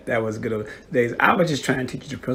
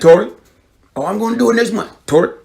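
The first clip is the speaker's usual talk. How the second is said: raised, louder retold nagging; nagging parent; 8 semitones higher, 7 dB louder, faster than usual. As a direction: re-enact calling someone out to nag them. Parent re-enacts nagging about savings.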